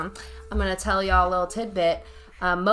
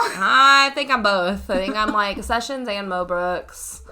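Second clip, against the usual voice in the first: slow, a bit louder, still half in the mock voice; lingering parody voice; 5 dB louder, slower than usual. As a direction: let the mock voice fade out slowly. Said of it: "Are you sure that you're not Sessions".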